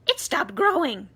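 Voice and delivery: loud, high cry. A narrator's reading. Aunt Spiker crying out that the peach stopped, loud and high. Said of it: "Aunt Spiker cried".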